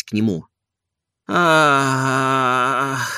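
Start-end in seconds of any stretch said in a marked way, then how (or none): 1.3-3.1 a long ah full of grief and joy; long drawn-out ah, sorrow and joy. A narrator's reading. Oblomov greeting his long-lost friend with a long ah. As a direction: let out one long aching ah. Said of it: "произнёс он в ответ продолжительно".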